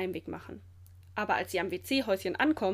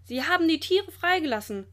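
raised, louder accusing cry; calling out; 7 semitones higher, 5 dB louder than usual. A narrator's reading. Keeper reports the culprits to the director, calling out. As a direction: call it out high and alarmed. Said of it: "ruft einer der Wärter".

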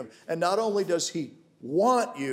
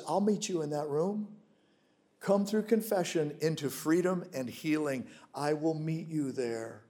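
gentle voice of God; 2 semitones lower, 6 dB quieter than usual. Acted. God's voice, gentle invitation in sermon.

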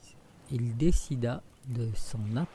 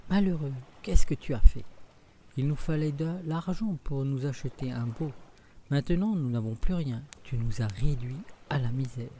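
angry scolding; 2 semitones higher, 4 dB louder than usual. Acted. Mother scolds Jacques for trading the cow, angrily. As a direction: scold the boy for the lost cow. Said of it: "sa mère se fâcha".

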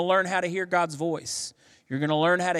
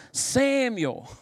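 a raised, ringing call of the name; God calling out; 8 semitones higher than usual. Acted. God calling young Samuel in the night, a high drawn call.

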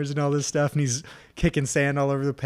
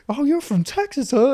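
raised, loud taunting question; imitated instructor taunt; 13 semitones higher, 8 dB louder than usual. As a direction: needle the recruit loudly, as an instructor. Drill instructor taunting recruit.

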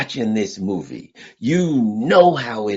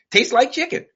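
bear voice; 14 semitones higher than usual. Pretend. Bear savoring its meal.

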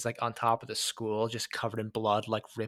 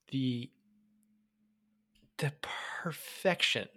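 a reverent hushed whisper; awed whisper; 6 dB quieter than usual. Real, not acted. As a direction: breathe the word out in a whisper. Awed praise of the scene.

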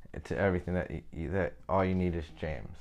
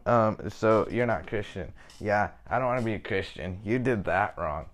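louder, mocking scorn that tapers off; mock scornful critic; 4 dB louder than usual. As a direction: sneer at the Christian like a critic.

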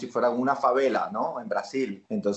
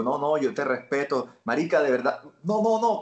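higher, hurried pleading as Freddy; Freddy's panicky excuse; 4 semitones higher than usual. Acted. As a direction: back off fast from the gun, rising panic. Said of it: "Entonces yo le digo".

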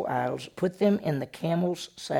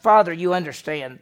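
a touch louder, pleading daughter's excuse; Rachel's excuse; 3 semitones higher, 7 dB louder than usual. Retold or imitated. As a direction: plead your way out, a little raised. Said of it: "What did she say?".

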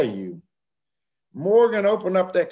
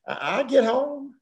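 panicky insistence; 11 semitones higher than usual. Retold or imitated. Panicky self-assurance.

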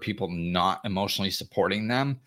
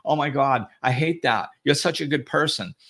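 higher, mock-sympathetic outrage; imitating friends piling on the sympathy; hammed-up gossipy indignation; gushing friends; 5 semitones higher than usual. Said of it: "all their friends run around go".

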